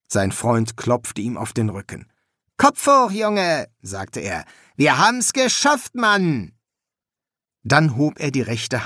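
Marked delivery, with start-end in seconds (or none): 2.6-3.7 very high, loud cheer-up; rally a downcast pal with gusto; chummy, ringing pep call; hearty encouragement. A narrator's reading. Friend cheers him up, backslapping. 4.8-6.5 high-pitched victory cry; exuberant, triumphant exclamation; jubilant. A narrator's reading. Friend celebrates passing the exam.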